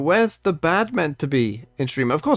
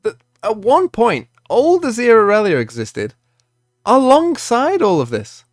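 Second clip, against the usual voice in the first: calm start building into a loud rant; calm turning angry; 3 semitones higher, 3 dB louder than usual. Real, not acted. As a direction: begin level, then get louder and exasperated. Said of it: "obviously this is a rant".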